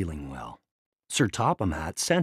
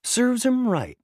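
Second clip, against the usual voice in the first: high, loud smug jeer; gloating; 12 semitones higher, 6 dB louder than usual. A narrator's reading. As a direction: gloat over Thomas's trouble. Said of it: "Diesel said".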